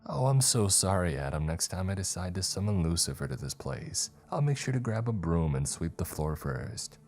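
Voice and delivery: exaggerated sorry, then dry follow-through; sarcastic apology. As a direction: lay on the sarcasm, punching the opening. Sarcastic comeback in acted dialogue.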